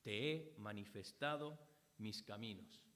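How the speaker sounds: "Te he manifestado mis caminos" said low and soft, like a quiet prayer; soft prayerful murmur. Shown as a demonstration. Preacher voicing the psalmist praying quietly to God. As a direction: hush it, as if praying alone to God. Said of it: "lo primero que hizo fue orar a Dios".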